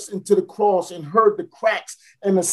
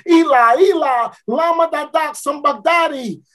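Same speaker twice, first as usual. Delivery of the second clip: anguished scream; 6 semitones higher than usual. Acted. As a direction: cry out to God in agony. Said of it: "And then he screamed".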